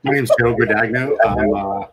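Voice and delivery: muffled inside a hot mask; inside a rubber mask. Real, not acted. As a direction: talk through a rubber mask. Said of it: "this mask is hot".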